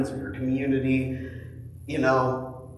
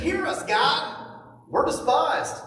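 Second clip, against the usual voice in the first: pleading prayer; 9 semitones higher, slower than usual. Retold or imitated. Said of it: "They said".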